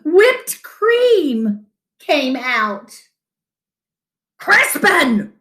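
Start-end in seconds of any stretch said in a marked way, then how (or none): 4.4-5.3 higher mock shout of his name; father shouting. A narrator's reading. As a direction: call him out in dismay. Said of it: "shouted his father".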